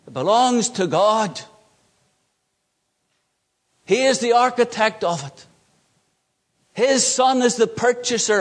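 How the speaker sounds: deliberate emphatic preaching, each statement set apart by a pause; emphatic pulpit declaration, pitch lifted on most statements. Real, not acted. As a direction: drive home each repeated point, pausing after it. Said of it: "Can I emphasize this?".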